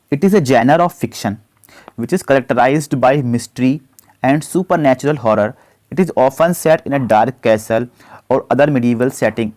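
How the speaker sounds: slow, deliberate dictation of the question; slow question read-out. Acted. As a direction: read it out word by word for students. Reads quiz question slowly. (धीमी आवाज़ में प्रश्न पढ़ना)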